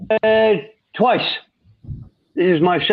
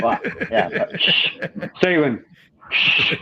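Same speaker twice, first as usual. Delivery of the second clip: laughing; 3 semitones higher, 4 dB quieter than usual. Real, not acted. Laughing while hushing a friend.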